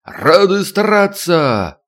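high, slow drawn-out chant; barked reply. A narrator's reading. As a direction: bark it back as a formation. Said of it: "рявкнул".

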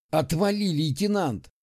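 snapped back. Acted. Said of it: "огрызнулся он".

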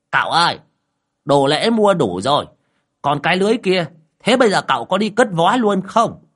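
put-on high, loud fussy old man voice; a keen old man reporting to his master; lightly voiced fussing old man; eager old man. Lão Đồng's character voice.

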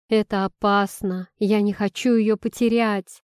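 ordinary delivery, nothing marked

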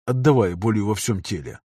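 ordinary delivery, nothing marked

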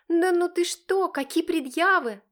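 high, loud fake outrage; theatrical huffy protest; mock indignation. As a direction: play offended, overdoing it. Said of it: "наигранно возмущается она".

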